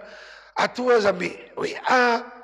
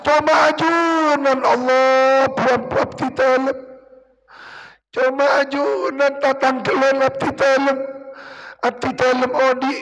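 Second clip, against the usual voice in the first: tearful pleading prayer; 3 semitones higher than usual. Pretend. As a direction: beg God as if about to weep. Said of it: "Sambil nangis ka pangeran". (doa memelas sambil menangis)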